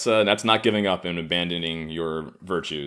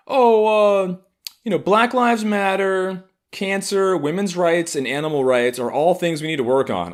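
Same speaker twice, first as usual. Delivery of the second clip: hammed-up earnest activist; mocking preachy lesbian; 12 semitones higher, 5 dB louder than usual. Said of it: "this fucking lesbian was just like".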